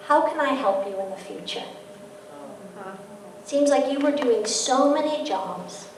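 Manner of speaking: softly voiced, understanding husband; gentle, unhurried reassurance, lightly acted; loving, gentle husband. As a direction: imitate a patient spouse speaking without blame. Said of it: "He spoke from a place of love".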